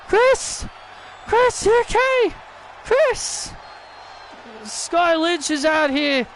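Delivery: kneel by him and check he is alright; worried friend. Pretend. Sky Lynch checks on hurt Chris.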